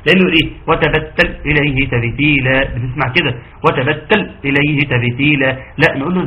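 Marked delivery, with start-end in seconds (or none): 0.7-2.6 وتبتل with the ل cut off hard, no flow; wrongly hard lam. Shown as a demonstration. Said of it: "أنت هنا حققت شدة وخالفت أصل". 3.6-5.5 وتبتل with a clipped, stopped ل; wrongly hard lam. Shown as a demonstration. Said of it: "أنت هنا حققت شدة وخالفت أصل".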